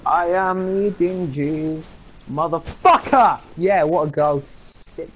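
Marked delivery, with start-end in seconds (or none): 0.1-3.4 slow, drawn-out mock Portuguese accent; attempted Portuguese accent. Co-host mocking a Portuguese speaker, slow fake Portuguese accent. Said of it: "I don't know what Portugal accent sounds like".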